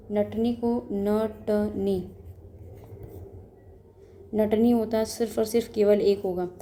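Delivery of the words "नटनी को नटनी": slowly spelled word. Shown as a demonstration. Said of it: "but नटनी".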